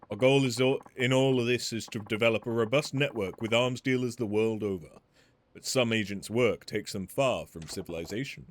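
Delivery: lightly voiced courteous weapons smith; a measured, polite merchant pitching his trade; refined shopkeeper. Polite weapons smith explaining his business to Majima, lightly voiced.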